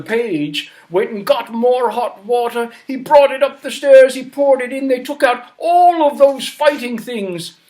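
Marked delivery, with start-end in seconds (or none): none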